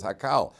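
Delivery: Hakal with an open A in the last syllable; unvowelled reading Hakal. Shown as a demonstration. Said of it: "you could read it as".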